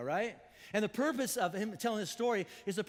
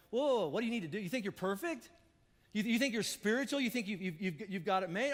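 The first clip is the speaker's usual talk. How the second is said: mock confrontation, pitched up; rising, pushy questions. Shown as a demonstration. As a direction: push each question up at him. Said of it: "same words earlier, louder".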